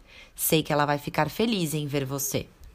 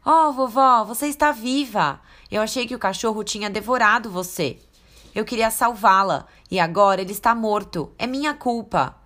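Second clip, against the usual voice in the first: higher, louder, tearful relief; relieved little girl; 5 semitones higher, 4 dB louder than usual. Acted. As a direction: cry out with relief. Girl relieved then guilty.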